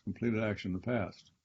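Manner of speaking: fading repeat of the phrase. Shown as a demonstration. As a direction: let the repeat fall away quietly. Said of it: "that it's completed action in the past".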